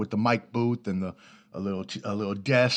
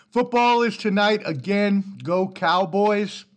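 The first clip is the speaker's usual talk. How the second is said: excited cheer; 8 semitones higher, 4 dB louder, slower than usual. Real, not acted. Cheering for his team.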